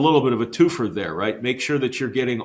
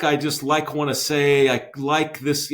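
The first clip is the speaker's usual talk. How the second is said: put-on valley girl voice; 3 semitones higher than usual. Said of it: "every other word is "like".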